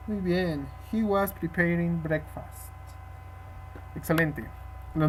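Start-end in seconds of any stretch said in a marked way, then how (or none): 0.9-2.7 slow, softer model reading; slow model repeat. Shown as a demonstration. Teacher repeating the answer for the student, slow.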